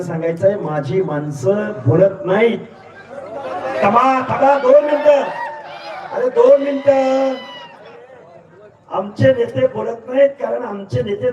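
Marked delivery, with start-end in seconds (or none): 3.8-7.3 calling over the crowd. Real, not acted. Calming a noisy crowd.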